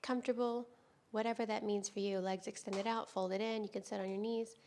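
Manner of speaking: calm, unhurried yoga teacher with long pauses; guided yoga meditation. Real, not acted. Teacher easing students into restorative yoga, calm guided-meditation delivery. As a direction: guide them gently through breath and stretch, leaving space between phrases.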